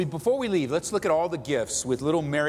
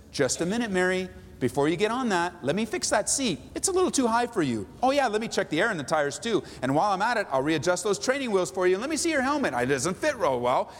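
higher, busy servant fixing everything; fussy helper; 4 semitones higher than usual. Shown as a demonstration. Pastor voicing a servant fussing over Mary's bike, busy and higher. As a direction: bustle about her bike, eager to serve. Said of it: "might sound like this".

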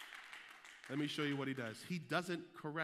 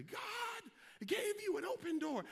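mock youth-day shout; 3 dB quieter, slower than usual. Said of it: "I shouted like crazy".

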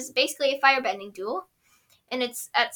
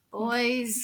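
exasperated; 4 dB quieter than usual. Retold or imitated. Exasperated after sigh.

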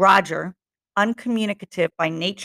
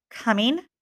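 casual, bitter; 4 semitones higher than usual. Acted. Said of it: "the casual, bitter word".

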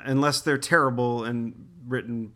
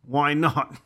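mock Australian Spike. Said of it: "I'm Australian".

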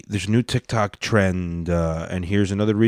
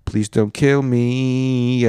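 mock pleading; much slower than usual. Joking plea to the Clintons.

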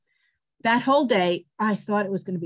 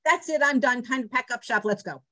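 a hint of a brisk old mother; lightly voiced firm wrap-up; mother announcing departure; 5 semitones higher than usual. Old mother declaring it's time to leave, lightly brisk. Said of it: "my mother says".

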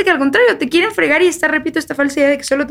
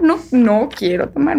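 firm refusal; slower than usual. Retold or imitated. Acts out firm refusal to drink.

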